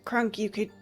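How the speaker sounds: ordinary talk, nothing marked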